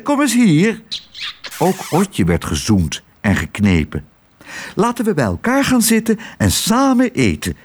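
smother him with reproachful delight; fussy gushing aunts. Acted. The aunts coo over Otje.

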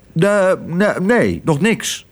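high, halting denial; stammered fib. A narrator's reading. Sparrow hides news from Otje after being hushed, stammering lie. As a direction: stumble on the first word, then deny. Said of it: "jokte Toep".

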